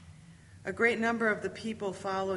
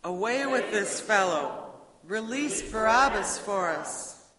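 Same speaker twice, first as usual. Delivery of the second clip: crowd demand; 2 semitones higher, 6 dB louder, slower than usual. Acted. Crowd demands Barabbas's release.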